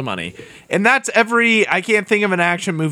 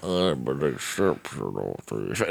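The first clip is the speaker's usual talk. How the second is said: much lower, softer and slow, a botched villain voice; bad Alan Rickman try; 14 semitones lower, 9 dB quieter, slower than usual. Friend fumbling his own try at the Rickman line, low and slow. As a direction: drag it out low like a failed Rickman. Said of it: "I don't know how to do it".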